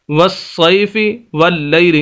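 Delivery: वस्सैफी वल्लैली with the ऐ kept short; no drawing out on the ऐ in वस्सैफी वल्लैली; वस्सैफी and वल्लैली read with short ऐ; unstretched vowel. Shown as a demonstration. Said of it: "इन दो अल्फाज के अंदर हमने इसको खींचा नहीं है".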